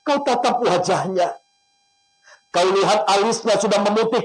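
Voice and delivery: emotional prayer. Acted. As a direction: plead with God, guiding the listeners. Leads an emotional prayer and guided imagery.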